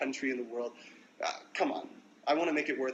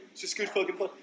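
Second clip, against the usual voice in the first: mock British accent, much higher, leaning hard on "fucking"; mock British bloke, pushed further; 7 semitones higher, faster than usual. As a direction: double down as the British fan, punching "fucking" in a British accent. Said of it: "How do you take it?".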